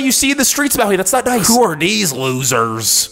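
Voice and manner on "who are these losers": slow tough-guy voice. Acted. Kevin character voice.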